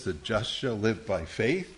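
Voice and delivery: slow quote with the weight on just; stress on just. Shown as a demonstration. Teacher quotes Romans to the class, stressing just. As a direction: lean on the word just, slowly. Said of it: "The emphasis is on the word just".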